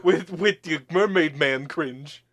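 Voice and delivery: lightly voiced hard-boiled detective; gumshoe voice. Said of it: "your gumshoe voice".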